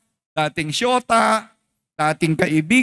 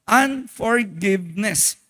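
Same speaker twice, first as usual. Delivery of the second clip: slow, stretched Unforgiveness; drawn-out answer; much slower than usual. Shown as a demonstration. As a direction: drag out Unforgiveness as the punchline. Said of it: "ano yung kasalanan mo?".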